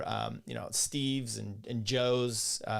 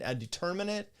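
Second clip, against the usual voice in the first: usual speaking voice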